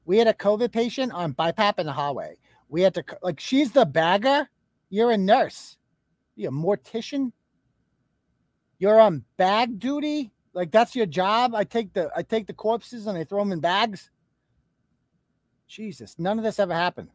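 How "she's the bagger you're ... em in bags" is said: mocking disbelief. Real, not acted. Streamer mocks a nurse's story of bagging bodies, incredulous. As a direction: draw out each question in disbelief.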